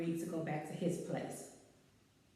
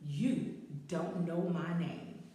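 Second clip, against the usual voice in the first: quoting a singer; 4 semitones lower, much slower than usual. Retold or imitated. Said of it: "As Alicia would say".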